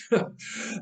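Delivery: short scornful chuckle; breathy mocking laugh. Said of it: "the knife man laughed".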